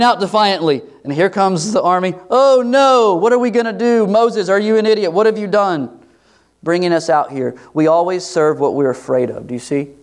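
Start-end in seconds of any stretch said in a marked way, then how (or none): 2.3-7.5 higher, whiny mock panic, fading at the end. Preacher voicing Israelites blaming Moses, mock panicked whining. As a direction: whine at Moses like frightened complainers.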